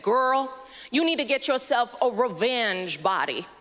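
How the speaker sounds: lightly voiced sassy British gay friend; a touch of camp, advising a friend; a hint of camp British best friend. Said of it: "My friends are gay British men".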